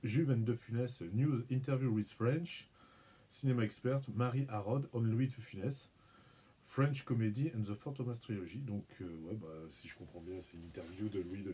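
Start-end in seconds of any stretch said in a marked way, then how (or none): 0.0-8.6 French accent in English. Real, not acted. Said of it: "pardon pour mon accent".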